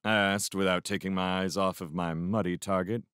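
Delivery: usual speaking voice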